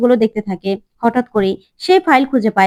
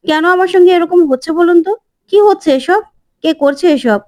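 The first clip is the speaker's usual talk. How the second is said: distressed question; 5 semitones higher than usual. Acted. Bani distressed, asking who does this.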